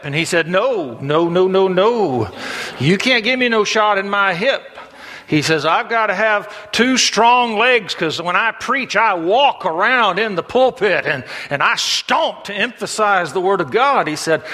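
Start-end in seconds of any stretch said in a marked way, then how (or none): 0.5-4.6 animated, higher-pitched storytelling refusal; lightly acted objection, pitched up; mock protest. Acted evangelist refusing the shot. 5.6-14.1 higher, animated preacher's objection; lightly hammed-up justification, pitched up; mock protest. Acted evangelist protesting to doctor.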